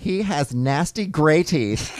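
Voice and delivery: slow, drawn-out troll reading; online troll. Acted. Host reads a troll's comment about Andy, slow mock disgust. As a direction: read the insults like a disgusted troll. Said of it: "in the way we think the online troll would sound".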